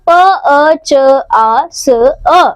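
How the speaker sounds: पचास split into प, अ, च, आ, स, अ; sounding out. Shown as a demonstration. Teacher shows children the sounds in पचास, sounding out प, अ, च, आ, स, अ. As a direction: say प, अ, च, आ, स, अ as separate sounds. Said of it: "पचास शब्द में आई ध्वनियां हैं".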